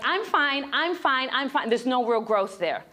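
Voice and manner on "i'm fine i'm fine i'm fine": mock denial. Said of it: "squishing down our feelings".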